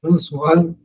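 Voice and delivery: slow, careful French accent on the name. Shown as a demonstration. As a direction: say the name like a native French speaker, slowly. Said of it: "Fala com sotaque francês".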